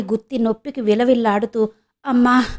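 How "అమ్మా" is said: mild pained cry అమ్మా; understated yelp of pain. Acted. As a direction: wince out అమ్మా at a twisted ankle. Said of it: "అని అరిచింది".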